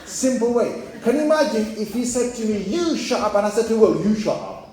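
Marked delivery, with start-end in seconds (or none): 2.6-3.3 higher-pitched mock insult; mock hostile order. Stranger to diner in imagined row, mock hostile order. 3.8-4.7 mock retort. Diner answering the stranger back, mock retort. His imagined retort to the insult.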